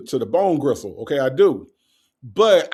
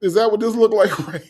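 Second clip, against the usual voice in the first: high challenge breaking into laughter; losing straight face; 5 semitones higher than usual. Real, not acted. Host questioning a commenter, really breaking up laughing. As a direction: try to stay indignant and crack up. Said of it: "can't even say this shit with a straight face".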